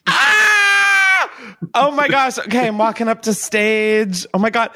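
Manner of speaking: high shriek of mock joy; shrieking jackpot winner. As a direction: squeal like you just won big. Pretending to win an award.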